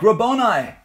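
high, loud cry of recognition. A narrator's reading. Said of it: "cried out in Aramaic".

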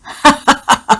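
high, loud delighted villain's laugh; gloating laugh. Acted. Brute laughing at the woman's threat, gloating high laugh. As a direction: laugh with cruel glee. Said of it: "มันกลับหัวเราะชอบใจ".

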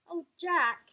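loud, high mock-pitying call; teasing. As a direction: tease him from high above. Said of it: "it teased".

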